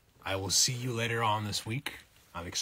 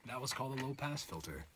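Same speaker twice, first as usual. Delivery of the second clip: muffled, as if through a wall; high end filtered out, muffled voice; muffled low-pass filter; 4 semitones higher, 10 dB quieter, much faster than usual. Shown as a demonstration. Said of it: "that's what it was".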